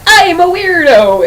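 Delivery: goofy mock villain line; lightly voiced goofy weirdo. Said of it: "a voice like".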